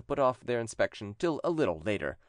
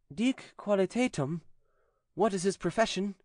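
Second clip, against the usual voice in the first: exorcist priest; 10 semitones higher than usual. A narrator's reading. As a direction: press the demon for a name. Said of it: "he asked the following questions".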